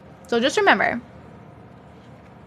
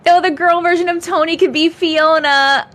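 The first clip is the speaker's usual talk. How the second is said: laughing through words; 5 semitones higher, 4 dB louder than usual. Real, not acted. Laughing while reading chat.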